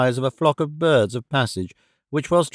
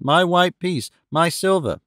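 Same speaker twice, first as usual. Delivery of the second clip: put-on child crying out; 3 semitones higher than usual. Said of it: "cried the child".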